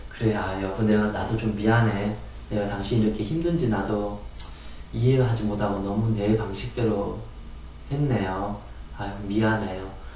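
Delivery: soft, low apologetic husband; husband softly apologizing to wife; gentle apology. Shown as a demonstration. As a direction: say sorry tenderly.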